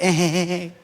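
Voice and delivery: low imitated sheepish "hehehe"; mock an evasive little chuckle. Congregant dodging the pastor's question, mock sheepish chuckle. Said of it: "Kita kalau punya masalah gitu".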